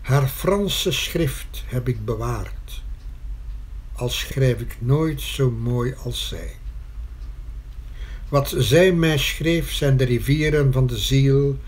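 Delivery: measured verse with spaced phrases; poem recitation. Acted. Poet reciting verse to the mother about her pen, measured recitation. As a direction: read it out as a poem, a pause after every line.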